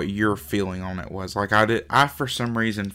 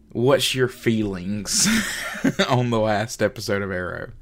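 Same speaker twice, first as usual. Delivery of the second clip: stifled giggles. Real, not acted. Giggling mid-question.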